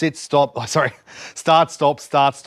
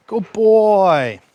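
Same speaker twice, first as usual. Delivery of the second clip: higher, drawn-out praise; praising the dog; 4 semitones higher, 4 dB louder than usual. Real, not acted.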